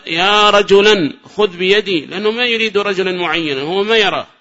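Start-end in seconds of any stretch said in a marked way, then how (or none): 0.1-2.1 slow, drawn-out call to an unseen stranger; blind man calling. Acted. Blind man asks any passer-by for help, calling out. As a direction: draw out the plea for help. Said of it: "كقول الأعمى".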